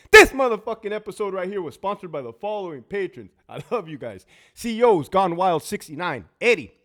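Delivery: loud, upbeat patron roll call; sponsor shoutout. Real, not acted. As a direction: read the names out proudly.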